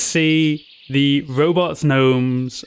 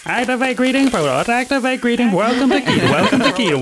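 high chorus of robot greetings; overlapping robotic gnome voices; 9 semitones higher, faster than usual. Acted. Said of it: "And you just hear".

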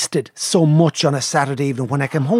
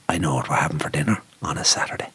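put-on sexy English accent; 12 semitones lower, 3 dB quieter, faster than usual. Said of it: "with a sexy English voice".

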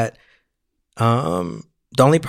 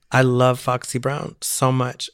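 slow, emphatic; slower than usual. Real, not acted.

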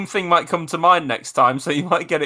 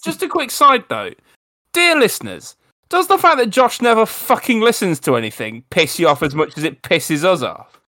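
mock formal address; 3 semitones higher than usual.

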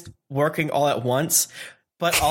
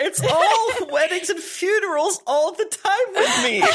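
gossipy voice; 14 semitones higher than usual. Acted. Voicing Eno's reply.

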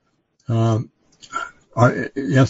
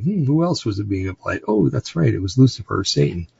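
mock realization. Sarcastic mock realization about Lucifer.

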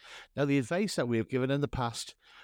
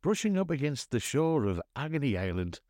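lowered scene-setting host voice; 3 semitones lower than usual. Acted. Host welcomes listeners to Agony Island in low smooth voice. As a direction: paint the tranquil island scene.

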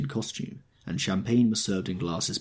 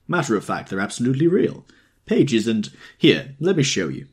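put-on excited drunk, louder, pitch jumping up; tipsy owl-eyed man; 4 dB louder than usual. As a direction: babble on like a delighted drunk.

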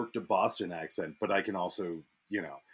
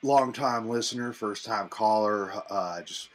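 mock radio caller. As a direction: play an earnest first-time caller, measured. Plays a sports radio caller.

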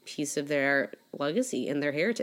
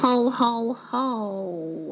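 jolly ho ho ho; 6 semitones higher, 3 dB louder, much slower than usual. Pretend. Santa laugh intro.

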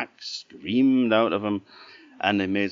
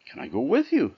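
goat voice; 7 semitones higher, 3 dB louder, faster than usual. Acted. Goat asks in story.

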